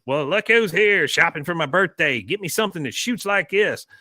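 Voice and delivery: a hint of a mean old veteran; lightly voiced grumpy grandpa; Cotton voice. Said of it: "He goes".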